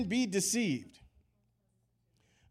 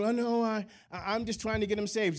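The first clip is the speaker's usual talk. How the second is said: higher-pitched defensive excuse; imitating an innocent protest, pitched up; mock excuse; 5 semitones higher than usual. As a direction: act out someone making excuses. Voices a believer's excuse.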